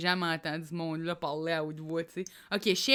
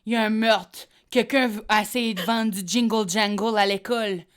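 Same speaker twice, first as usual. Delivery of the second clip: put-on louder, dramatic teen soap delivery; Riverdale dramatic voice; 6 dB louder than usual. Doing Riverdale for her friend, louder soap drama. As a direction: announce it like a soap plot twist. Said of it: "je suis capable de faire Riverdale".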